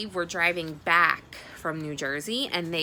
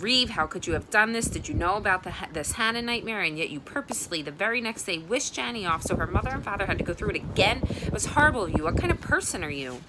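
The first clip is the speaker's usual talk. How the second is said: loud angry scolding; father yelling at his son in the driveway; bellowing father; 4 semitones higher, 3 dB louder, faster than usual. Acted. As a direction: let a furious father roar at his son. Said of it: "Mister Shields bellowed".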